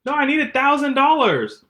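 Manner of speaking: high, loud pleading grandkid; tearful muffled scam call. Pretend. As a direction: beg like a stranded grandchild.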